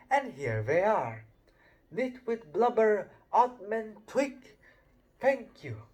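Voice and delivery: a lightly voiced old headmaster, a touch grand; Dumbledore welcoming. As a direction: greet the whole school, arms wide. Dumbledore's speech.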